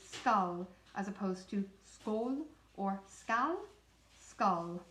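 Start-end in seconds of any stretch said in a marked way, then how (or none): 0.1-0.7 Skal with a plain middle A; neutral A. Shown as a demonstration. Teacher modelling the neutral A in Skal. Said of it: "a good example of the neutral A". 4.2-4.8 Skal with a plain middle A; neutral A. Shown as a demonstration. Teacher modelling the neutral A in Skal. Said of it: "the middle A, just the normal one".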